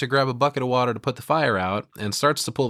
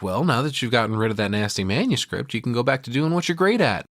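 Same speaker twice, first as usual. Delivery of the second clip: mock gushing Annie; 3 semitones higher than usual. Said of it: "She's like".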